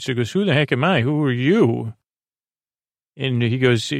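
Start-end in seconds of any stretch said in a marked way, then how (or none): 0.3-1.9 Mickey with attitude. Retold or imitated. Answering Jack's challenge at the door, with mild attitude. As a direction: throw the question back with some attitude. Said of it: "Mickey's got his own attitude".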